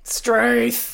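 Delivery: playful, drawn-out Aussie exclamation; Aussie slang, lightly hammed up; mock broad Aussie. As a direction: lean into the Australian accent for a joke. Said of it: "why you sound so Aussie".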